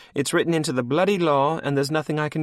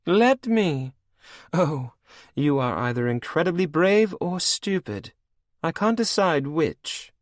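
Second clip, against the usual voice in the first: high loud scornful laugh in the voice; mocking; 11 semitones higher, 5 dB louder than usual. A narrator's reading. Anne mocking Cashel's defiance, high scorn.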